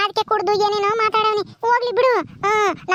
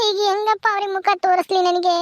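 tearful lament. Acted. Wife weeps over husband's suspicion.

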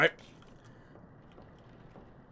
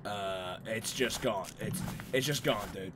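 deflated; 7 semitones lower, 16 dB quieter than usual. Real, not acted. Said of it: "I have got no high pitch in me".

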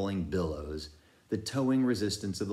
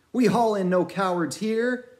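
scornful shout; 14 semitones higher, 7 dB louder than usual. A narrator's reading. Same cry repeated.

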